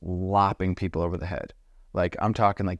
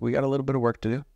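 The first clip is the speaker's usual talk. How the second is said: quick high understatement; 6 semitones higher, much faster than usual. Retold or imitated. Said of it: "And I was like".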